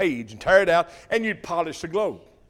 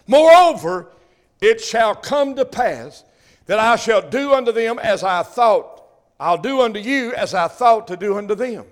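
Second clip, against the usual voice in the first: thundering scripture; 5 dB louder than usual. Acted. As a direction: proclaim each word like judgement. Reading scripture with force.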